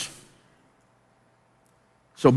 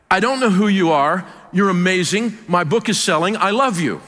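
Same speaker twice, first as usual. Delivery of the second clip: higher, measured imitation of an excited caller; lightly voiced South African caller, pitched up; imitated South African rabbi; 5 semitones higher than usual. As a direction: retell his gushing phone call in a higher voice. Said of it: "he's got this fabulous accent".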